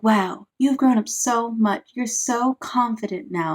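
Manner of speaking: lightly imitating an admiring crowd; slow, drawn-out pretend admiration; mock gushing praise. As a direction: gas him up, half mocking. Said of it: "they're just gassing him up even more".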